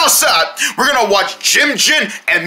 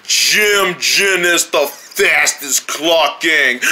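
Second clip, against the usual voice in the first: dramatic announcer cry; 7 semitones lower, much slower than usual. Acted. Cartoon announcement, crying shout.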